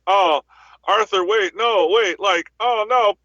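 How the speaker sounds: lightly hammed-up panic, begging him to stop; mock terrified plea. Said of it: "he genuinely acted terrified".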